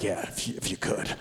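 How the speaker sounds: very soft, low, hesitant reply; acted meek resignation, barely voiced; deflated politeness. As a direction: mumble a meek, halting request.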